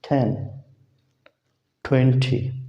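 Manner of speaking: टेन said with aspirated ठ. Shown as a demonstration. Teacher models English t for students. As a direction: puff on the t of ट्वेंटी like ठ. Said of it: "ठी की तरह है ये".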